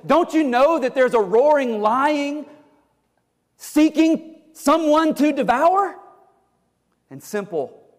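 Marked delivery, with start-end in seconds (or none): 0.1-6.0 higher, slowing on the last words; urgent warning. Acted. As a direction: warn them of the lion. Christian warns of the lion.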